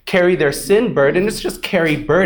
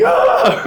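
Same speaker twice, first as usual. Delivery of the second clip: mock wail; 4 semitones higher, 3 dB louder than usual. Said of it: "I'm like".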